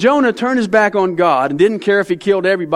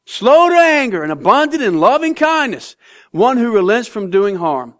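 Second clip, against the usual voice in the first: sarcastic Jonah; 2 semitones higher than usual. Acted. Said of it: "you can hear the sarcasm".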